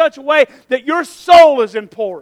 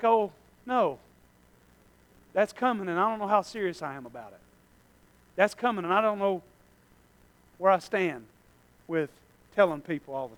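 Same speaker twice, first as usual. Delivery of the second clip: worried inner voice; 7 semitones lower, 12 dB quieter than usual. Pretend. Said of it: "probably more of like".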